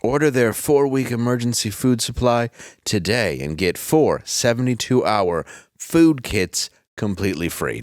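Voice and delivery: hammed-up sponsor pitch; ad read. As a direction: sell it like a cheesy radio ad. Reads sponsor ad copy.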